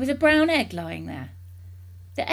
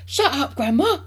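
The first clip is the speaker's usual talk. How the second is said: loud, higher-pitched dismissal; brusque shout; 7 semitones higher, 8 dB louder than usual. A narrator's reading. Mister Cranky silencing Grandma on the roof, brusque shout. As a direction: cut her off loudly.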